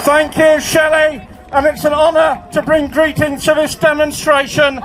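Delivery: full-force, measured public speech; rally oratory. Real, not acted. Union chief addresses the demonstration, shouted oratory. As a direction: deliver each phrase out to a big crowd.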